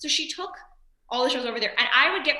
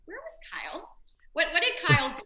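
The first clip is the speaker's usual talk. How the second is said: higher-pitched imitation of puzzled parents; baffled parents; 6 semitones higher than usual. Parents phoning about their son after the show, baffled. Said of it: "they called Natalie, my sister".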